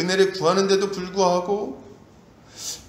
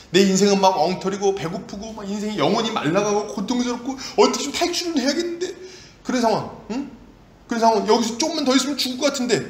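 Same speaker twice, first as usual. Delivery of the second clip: desperate complaint; 3 semitones higher than usual. Acted. Acting out someone desperate to escape.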